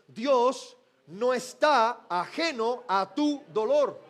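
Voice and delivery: slow, deliberate repeat-after-me line; repeat to your neighbor. Shown as a demonstration. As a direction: say it slowly to the person beside you. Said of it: "Dígale a la persona que tiene a su lado". (frase lenta para repetir al vecino)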